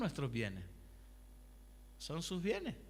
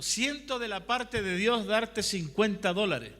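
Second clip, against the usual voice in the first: earnest announcement; 3 semitones higher, 7 dB louder, slower than usual. Retold or imitated. Someone in the car speaks.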